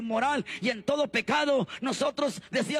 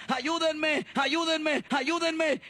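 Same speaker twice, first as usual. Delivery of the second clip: slightly raised, urgent retold cry for help; retold crying plea; 3 semitones higher, much slower than usual. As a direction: repeat the plea, imitating mother's desperate call. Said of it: "mi madre lloraba y gritaba". (imitando un grito de auxilio desesperado)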